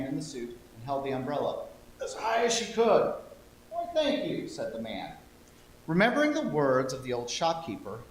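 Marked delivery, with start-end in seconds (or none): 3.7-4.5 higher surprised thanks; grateful man. Acted. Man in suit thanking the girl with surprise.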